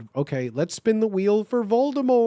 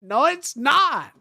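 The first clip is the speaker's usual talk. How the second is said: high, slow, loud angry outburst; hammed-up teen angst shout; 8 semitones higher, 5 dB louder, slower than usual. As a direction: snap it back furiously. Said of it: "I shouted angrily".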